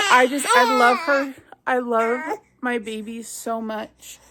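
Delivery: choked up, voice wavering; fighting back tears; teary. Real, not acted. Mom crying about her baby.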